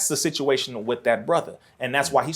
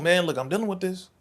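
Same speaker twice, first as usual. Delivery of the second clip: controlled, slightly softer plea; calm voice; 4 semitones higher, 3 dB quieter than usual. Acted. Man confiding in a friend in the back room, calm. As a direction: explain it calmly, holding back. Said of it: "in a very calm voice before".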